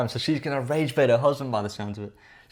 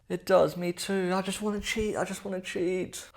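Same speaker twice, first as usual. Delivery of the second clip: high, slow, whiny little voice mocking him; mock whiny cheater; 8 semitones higher, 4 dB quieter, slower than usual. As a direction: pitch way up and whine like a sulking cheater.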